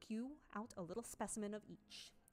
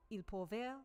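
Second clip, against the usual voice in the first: Italian recitation; 2 semitones higher than usual. Shown as a demonstration. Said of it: "That's Italian".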